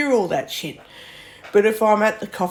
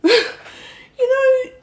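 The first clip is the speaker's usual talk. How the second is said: laugh-cry; 4 dB louder than usual. Real, not acted. Laughing while upset.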